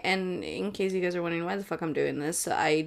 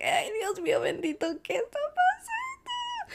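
mock distress. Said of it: "I was like".

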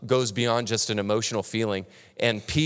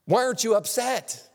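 high, puzzled questioning of a calm friend; amazed asking; 8 semitones higher than usual. Retold or imitated. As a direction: ask it in wide-eyed disbelief. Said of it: "people have to come and ask you".

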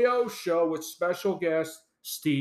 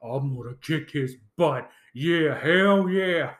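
mock Austin entrance. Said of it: "Here comes Steve Austin".

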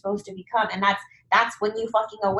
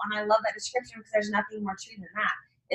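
softer, whispered with awe; 7 dB quieter than usual. Real, not acted. Host tells the guest she loves it, whispered. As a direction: breathe it out, hushed.

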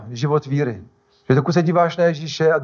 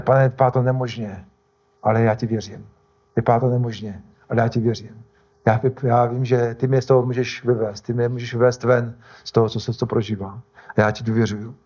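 lower-pitched, sincere murmured trust; 4 semitones lower than usual. Acted. Believer telling the Lord he trusts, low sincere prayer. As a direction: pray it gently and low, as an example.

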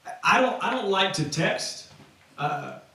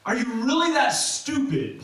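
higher-pitched disbelieving rebuke; incredulous Paul; 5 semitones higher than usual. Acted. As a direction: challenge them as if you can't believe it. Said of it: "Paul is asking".

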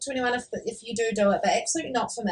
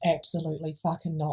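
laughing refusal; 6 semitones lower, 6 dB quieter than usual. Real, not acted. Toothbrush sharing question, laughing.

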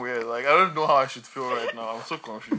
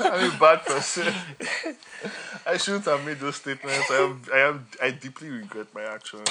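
mock apology. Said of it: "parodying racists".

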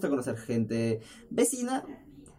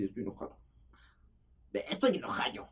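muttered, much softer sulky tone; mock sulky; 3 semitones lower, 7 dB quieter than usual. Shown as a demonstration. Showing how bad TikTok actors play anger, sulky and soft. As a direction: say it low and sullen. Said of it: "poner cara de culo así".

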